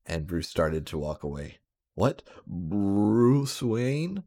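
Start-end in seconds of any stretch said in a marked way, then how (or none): 1.9-4.2 surprised. Acted. Fat cop hears the name.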